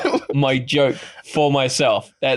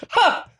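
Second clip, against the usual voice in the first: high, single "ha"; one high mock laugh and nothing more. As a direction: imitate a one-note character laugh. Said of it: "they only did a single laugh".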